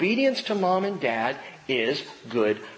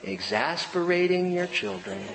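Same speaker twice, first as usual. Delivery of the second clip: laughing remark; 3 semitones higher than usual. Retold or imitated. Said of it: "Cheryl's over there going".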